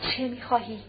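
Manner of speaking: low and subdued, held back; deep-voiced question. A narrator's reading. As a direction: ask coldly and quietly. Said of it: "با صدای عمیقی گفت". (با صدای عمیق و آرام)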